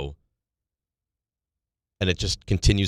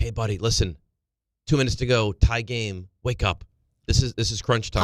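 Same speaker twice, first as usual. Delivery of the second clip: plain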